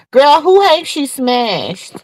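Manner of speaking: dragging the question out with scandalised relish; incredulous gossip. Real, not acted. Gossiping to viewers about Monette, slow scandalised disbelief.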